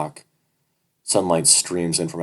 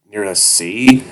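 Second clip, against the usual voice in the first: surprised question; 4 semitones higher, 10 dB louder, slower than usual. Acted. Narrator asks captor, surprised.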